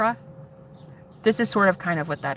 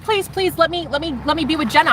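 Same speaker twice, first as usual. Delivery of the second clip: high, pleading dog voice; imitated whimpery pleading; whimpering dog; 7 semitones higher than usual. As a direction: beg in a high pitch like a pup. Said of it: "The dog kept whimpering and whimpering".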